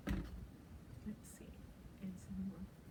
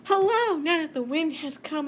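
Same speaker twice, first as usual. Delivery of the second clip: very high, louder hello; a little puddle greeting; very high, bright hello; 6 semitones higher, 4 dB louder than usual. Acted. Puddle voiced.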